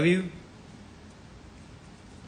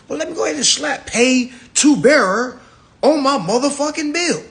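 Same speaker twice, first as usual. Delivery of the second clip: laughing mockery; 13 semitones higher, 8 dB louder than usual. Real, not acted. Laughing while mocking the endorsement.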